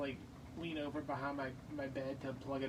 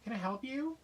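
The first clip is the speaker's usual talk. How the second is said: dismissive; 8 semitones higher than usual. Retold or imitated. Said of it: "I was like".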